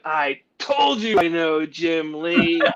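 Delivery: slow, smug I-told-you-so; slow smug gloating to the doubting friend. Retold or imitated. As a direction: gloat slowly at your friend. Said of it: "like, all smug".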